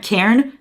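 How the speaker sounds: Cairn with an "air" vowel, questioning; unsure pronunciation. Real, not acted. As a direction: try Cairn rhyming with "bairn", rising. Trying out a name's pronunciation.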